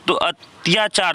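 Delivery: अत्याचार said slowly, each syllable clear; sounding it out. Shown as a demonstration. Teacher showing students how अत्याचार sounds, slowly. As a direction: draw out अत्याचार so the अति is heard. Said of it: "जब उच्चारण होता है तो अत्याचार".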